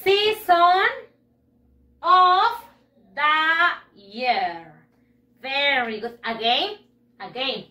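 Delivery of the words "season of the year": slow, loud, word by word; practice model. Shown as a demonstration. Teacher drills the class on the phrase, slow and loud. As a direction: say each word separately for pupils to copy.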